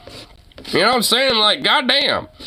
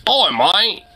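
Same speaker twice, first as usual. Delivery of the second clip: mock Australian accent; 3 semitones higher than usual. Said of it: "I'm okay with the Aussies".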